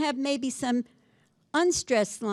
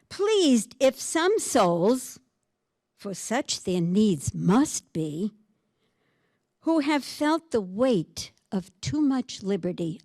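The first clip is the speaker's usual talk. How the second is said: poem reading. Acted. Reading the sonnet aloud.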